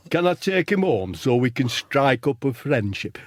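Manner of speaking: lightly put-on northern comic's accent; hint at an old club comedian's accent; Charlie Williams. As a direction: borrow a comedian's homely accent. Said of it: "Charlie Williams? ... Did speak like that".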